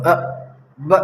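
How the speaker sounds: each letter jerked out short and sharp; jerky rushed letters. Shown as a demonstration. Teacher mimics a pupil's jerky rushed reading. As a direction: hurry and jolt the letters out like a careless reader. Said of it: "جھٹکا نہیں مارنا، جیسے کچھ لوگ جلدی پڑھنے کے چکر میں جھٹکا مار".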